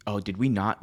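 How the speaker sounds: ordinary talk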